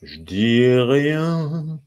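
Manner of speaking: very slow, stretched syllables. Shown as a demonstration. Teacher showing how to find the syllable count, very slow. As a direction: draw the music out to count each syllable. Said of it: "il suffit de ralentir un petit peu".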